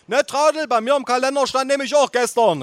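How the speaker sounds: very high, strained voice; calling aunt. A narrator's reading. Aunt backing up the date, shrill calling. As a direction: call it out insistently. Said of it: "rief meine Tante".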